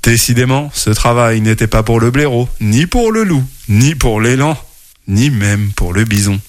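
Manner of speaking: lively storybook narration with character voices; reading to children. A narrator's reading. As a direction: tell it like a bedtime story to kids. (lecture d'histoire pour enfants)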